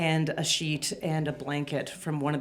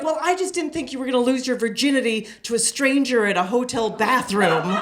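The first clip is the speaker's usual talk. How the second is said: friend's gentle reproach; 7 semitones higher, 6 dB louder than usual. Retold or imitated. Friend's judging reply.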